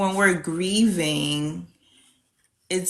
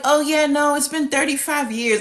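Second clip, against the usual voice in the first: higher, louder breezy voice with a laugh; imitating casual client; 9 semitones higher, 4 dB louder than usual. Mimicking a grieving client, casually naming thirty-five years. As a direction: toss it off lightly as if no time passed. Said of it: "when they're like".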